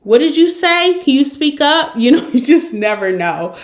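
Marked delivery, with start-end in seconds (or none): 0.0-1.9 high, loud mock confusion; straining to hear. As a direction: call out to a mumbler, louder. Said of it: "it's like".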